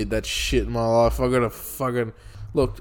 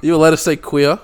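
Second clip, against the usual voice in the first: man doing a woman's voice; 4 semitones higher, 7 dB louder than usual. Pretend. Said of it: "this is Anthony's mum".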